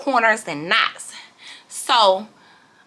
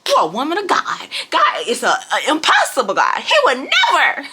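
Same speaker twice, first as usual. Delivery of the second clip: hyping myself up. Retold or imitated. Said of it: "hyping myself up".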